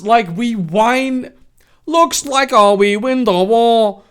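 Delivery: slow, high, loud drawn-out delivery; General's character voice. Acted. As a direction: stretch the words out loudly as the General. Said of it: "General, Genital Lee said".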